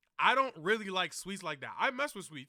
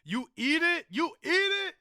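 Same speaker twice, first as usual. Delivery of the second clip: incredulous; 9 semitones higher, 5 dB louder than usual. Real, not acted. Incredulous question to friends.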